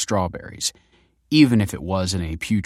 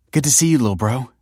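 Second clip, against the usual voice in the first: higher, louder and quick hello; bright greeting; 6 semitones higher, 5 dB louder, faster than usual. Acted. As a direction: greet him brightly and fast. Greeting the sulky brother.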